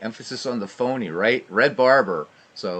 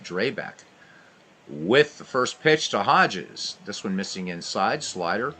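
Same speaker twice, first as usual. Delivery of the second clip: brisk radio ballgame call; live baseball commentary voice; play-by-play. Acted. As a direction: call every pitch like a radio announcer.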